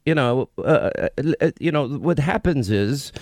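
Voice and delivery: badly faked British accent, stumbling along; bad British imitation. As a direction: do a clumsy mock-British Katie. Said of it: "is this your invitation of Katie".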